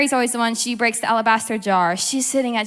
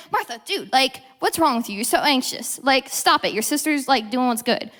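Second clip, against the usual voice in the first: mock condescending scolding. Jesus wrongly imagined scolding Martha, condescending. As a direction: scold as if talking down to her. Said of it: "he's not saying this in a condescending tone".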